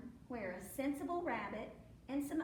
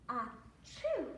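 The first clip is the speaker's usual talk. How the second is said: acted "ah-choo" with a jump on the choo; mimed sneeze; 3 dB louder than usual. A narrator's reading. Cow catching the bee's cold, storyteller's mock sneeze. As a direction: act out the cow's sneeze. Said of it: "and the sneeze".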